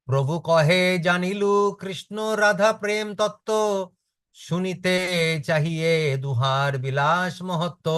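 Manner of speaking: quick, sing-song scripture recitation; verse recitation. Acted. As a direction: rattle off the Bengali verse like a chant.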